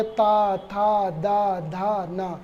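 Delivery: ता था दा धा ना, tongue touching the teeth; dental sounds demo. Shown as a demonstration. Teacher sounding out dental ता था दा धा ना for the class. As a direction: list ता, था, दा, धा, ना slowly, fading out. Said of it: "उच्चारण करके देख लें".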